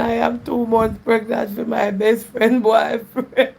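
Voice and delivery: slow, laughing read of the comment. Real, not acted. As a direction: read it aloud while trying not to laugh. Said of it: "Me nah laugh at funny".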